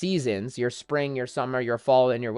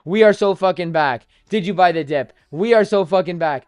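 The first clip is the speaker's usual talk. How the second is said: hammed-up bull cheering then deflating; mock euphoric bull. Streamer acting out a market cycle, mock euphoria. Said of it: "I'm gonna even take it further than that".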